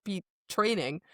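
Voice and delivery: fast, rushed excuse; fast nervous excuse. Retold or imitated. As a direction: gabble an excuse and go. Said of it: "he's like".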